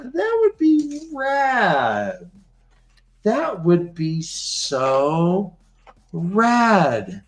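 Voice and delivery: dreamy rad. Acted. Slave woman answering Roland, slow and dreamy. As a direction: stretch it out, starry-eyed.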